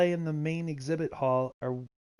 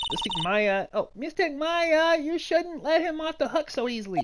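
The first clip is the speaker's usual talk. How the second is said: Pearly pleading; 12 semitones higher than usual. Acted. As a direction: beg Mystic Maya earnestly. Game character voiced.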